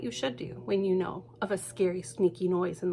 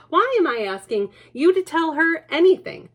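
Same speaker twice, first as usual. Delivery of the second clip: higher, louder, incredulous; exasperated father; 8 semitones higher, 7 dB louder than usual. Acted. Father catching himself talking to a puppet. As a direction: scoff at yourself.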